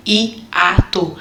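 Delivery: "hiato" said slowly as hi-a-to, the a left on its own syllable; teacher drawing out "hiato" as hi-a-to; slow syllable split. Shown as a demonstration. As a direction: stretch out "hiato" so the vowels sit in separate syllables. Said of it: "até a própria palavra hiato tem o hiato".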